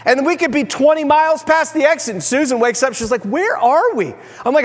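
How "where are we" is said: higher, mock-alarmed question; bewildered wife. Wife waking twenty miles past the exit, higher and bewildered. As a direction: imitate a wife waking up confused. Wife wakes up lost, retold.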